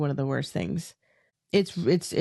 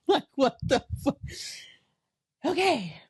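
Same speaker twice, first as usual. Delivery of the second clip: high disbelief; 10 semitones higher than usual. Real, not acted. Laughing disbelief.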